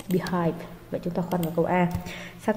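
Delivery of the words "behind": be-HIND, weight on "hind"; second-syllable stress. Shown as a demonstration. Teacher rereading the options, "behind" stressed on "hind". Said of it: "behind là nhấn âm hai".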